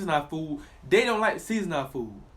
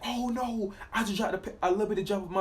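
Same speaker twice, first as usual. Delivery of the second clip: mock panic; 3 semitones higher than usual. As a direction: play the fusspot who frets over nothing. Mock panic over spilled water.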